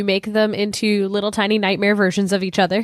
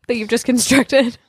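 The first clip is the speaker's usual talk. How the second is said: teasing whispered aside; 3 semitones higher than usual. Real, not acted. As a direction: breathe it out with a giggle.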